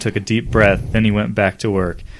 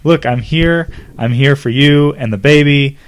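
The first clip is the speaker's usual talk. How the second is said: heated; 5 semitones higher, 6 dB louder than usual. Acted. Couple's heated argument.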